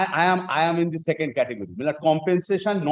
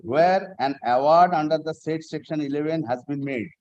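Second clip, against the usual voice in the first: formal legal reading. Shown as a demonstration. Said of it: "Kindly, I am reading once more".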